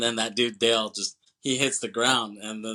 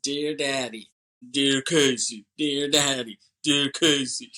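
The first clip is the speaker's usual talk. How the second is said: hammed-up alternating letter salutations; mock a cheesy, repetitive letter montage; montage letter voiceover; 2 semitones higher, 3 dB louder than usual. Father and daughter writing back and forth, cheesy voiceover. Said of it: "just that montage of".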